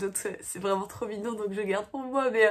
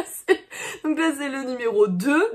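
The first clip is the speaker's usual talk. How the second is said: laughing; 4 semitones higher, 5 dB louder than usual. Real, not acted. Laughing while unwrapping.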